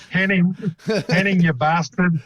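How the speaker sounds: bad South African accent; lightly voiced South African. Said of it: "terrible rendition of a South African accent".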